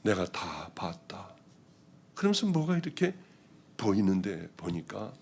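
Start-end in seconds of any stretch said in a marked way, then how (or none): 0.0-1.3 slow, soft whisper, each word weighed; a hushed, slow divine whisper; solemn slow whisper; whispered voice of the Lord. Retold or imitated. The Lord speaks during prayer.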